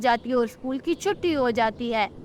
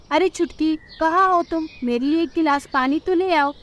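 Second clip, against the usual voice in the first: husband calling; 4 semitones higher than usual. Acted. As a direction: call your wife from the door. Husband calls wife.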